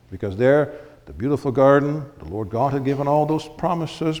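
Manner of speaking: ordinary delivery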